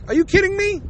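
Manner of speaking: high incredulous outburst; high disbelieving squeal. Real, not acted. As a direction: sound genuinely stunned. Ranting disbelief at the singer.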